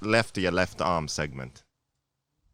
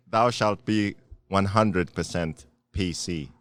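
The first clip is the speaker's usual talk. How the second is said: mock commandment; slower than usual. Mock rules read as commandments.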